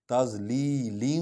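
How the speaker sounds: تضلیل read slowly with a drawn-out final syllable; tajweed recitation. Shown as a demonstration. Teacher models تضلیل slowly. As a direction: stretch تضلیل slowly, clearly. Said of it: "یہ اس کا نون غنہ بن جائے گا".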